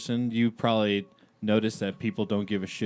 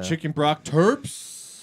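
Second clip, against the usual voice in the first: mock disbelief; 5 semitones higher, much slower than usual. Mocking incredulous repeat.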